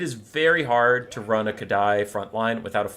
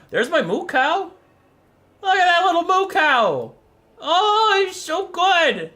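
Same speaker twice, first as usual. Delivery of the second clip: gushing pet talk; 5 dB louder than usual. Real, not acted. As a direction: coo loudly at an adored animal. Cooing over pet pictures.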